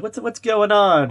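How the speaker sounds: slow, high put-on confrontation; lightly voiced Kahuna demanding answers; retelling Kahuna's challenge; mock tough guy.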